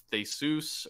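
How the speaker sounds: Theseus said slowly as "thay-SOOS"; unsure stab at Theseus, rhyming the end with "goose"; tentative mispronunciation. Real, not acted. Host hazarding the name of a philosophical problem, tentative mispronunciation. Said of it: "I might butcher the pronunciation".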